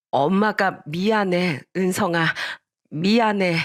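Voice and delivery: drawn-out remorseful apology; subdued, regretful mother; sorry mother. Acted. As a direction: gently apologise to your child. Mother sorrowfully apologises to child.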